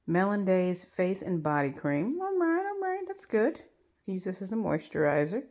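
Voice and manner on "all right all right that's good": high hiccuping words; with hiccups. Real, not acted. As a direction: voice jumps with hiccups. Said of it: "having the hiccups this whole time".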